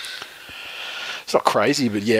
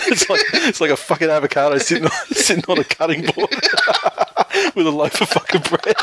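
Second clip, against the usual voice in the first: talking through giggles; laughing; 6 semitones higher than usual. Real, not acted. Laughing while roasting co-host's deconstructed avocado. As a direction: lose it while mocking the hipster brunch. Mocking hipster brunch, laughing.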